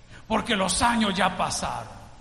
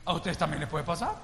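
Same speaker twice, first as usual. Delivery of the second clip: repeated warning; 4 semitones lower, 3 dB quieter than usual. Retold or imitated. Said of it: "le digo".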